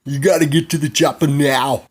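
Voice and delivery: loud, urgent commanding shout; hammed-up rescue order, shouted; imitated action-hero voice. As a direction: bellow it like an action-movie hero. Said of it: "we hear this voice".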